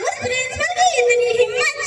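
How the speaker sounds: indignant outburst. Acted. Father outraged at principal.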